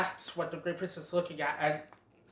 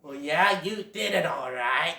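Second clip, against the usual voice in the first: drily conceding, at an everyday pitch; grudging porcupine. Acted. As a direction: admit it without any cheer. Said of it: "the porcupine's all like".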